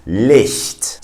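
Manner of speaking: LICHT with a soft hissed ch before the t; slow, demonstrated German LICHT. Shown as a demonstration. Teacher translates light for learners, soft German ch. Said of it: "sound that comes from the back of the throat".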